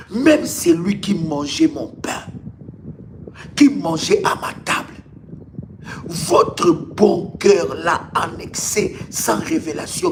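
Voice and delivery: ordinary delivery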